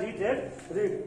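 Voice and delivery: रीड as reed, रेड as red, रीड as reed; teacher showing three sounds of read; pronunciation contrast. Shown as a demonstration. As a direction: say रीड long, रेड short like red, रीड long again. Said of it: "pronunciation अलग होता है".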